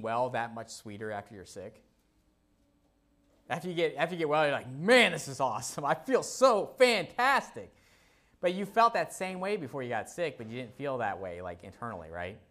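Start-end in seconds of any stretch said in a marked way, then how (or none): 4.7-7.7 overjoyed, high and loud; elated. Retold or imitated. Someone just well again, gushing with high excitement. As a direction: gush about feeling great after being sick.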